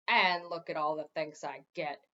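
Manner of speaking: lightly voiced grumbling gargoyle; a hint of a sulky gargoyle; complaining gargoyle. A narrator's reading. Gargoyle grumbling to the king, mild complaint. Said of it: "the gargoyle complained".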